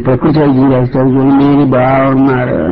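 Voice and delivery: low, draggy, drawn-out words; mock slow talk. Shown as a demonstration. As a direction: imitate someone talking far too slowly. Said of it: "బాగా షోగా నెమ్మదిగా".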